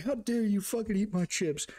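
high, indignant retold outburst; comic affronted fury; mock angry. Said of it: "I was so angry".

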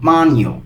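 "bagno" said clearly as BA-nyo, gn like ny; careful pronunciation. Shown as a demonstration. Bengali teacher shows students how to say bagno, careful and clear. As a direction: model "bagno" with the gn glided as ny. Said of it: "উচ্চারণটা কি হবে দেখুন".

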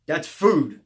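low, loud, dismissive put-down; mock jerk-off guard. Guard tells confused inmate what's on the tray, jerk-off tone. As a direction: answer like a real jerk. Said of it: "said it like a real jerk off".

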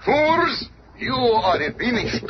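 a high, sharp shout of contempt; scornful cry. Acted. Submariner sneering at the heroes who came to rescue her, shouting. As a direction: spit the word at them.

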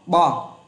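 "bo" alone with an open O vowel; corrected reading. Shown as a demonstration. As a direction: say a short, separate "bo". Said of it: "không phải nắm A mà nắm O". (đọc rời "bo" với âm o)

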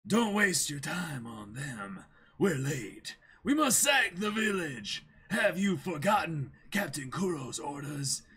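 mildly stern, slow pirate threat; intimidating pirate. Acted. Pirate officer scolding the crew, mild menace. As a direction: try to sound menacing to the crew. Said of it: "trying to make him actually sound intimidating".

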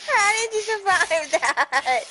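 slow, loud, high disbelief; amazed. Real, not acted. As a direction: stretch it out in disbelief. Amazed by partner.

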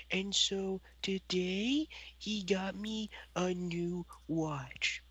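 put-on slow, hushed little kid voice; a lightly voiced kid, slow and half whispered; slow kid voice, partly whispered. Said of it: "oh, I should probably do this in the right voice".

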